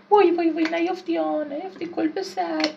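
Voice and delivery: high, tense pleading; anxious pleading. Real, not acted. Gamer pleads with his character, anxious. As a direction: beg the character not to fall.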